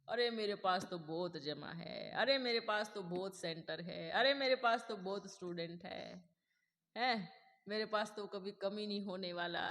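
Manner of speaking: हल्के घमंड भरे अंदाज़ में, धीरे-धीरे धीमा होता हुआ; mock complacent boasting. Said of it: "बच्चे क्या करते हैं". (आत्मसंतुष्ट शिष्य की हल्की नकल)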